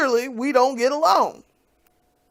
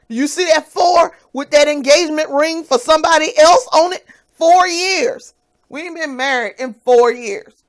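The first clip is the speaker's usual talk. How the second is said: angry rant; 6 semitones higher, 7 dB louder than usual. Real, not acted. Ranting at ex about remarriage.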